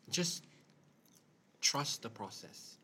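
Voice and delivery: whispered slowly, earnest. Real, not acted. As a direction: breathe it out slowly and gently. Soft earnest advice.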